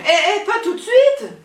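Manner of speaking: high, loud flustered laugh; laughing protest. Acted. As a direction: protest through a nervous laugh.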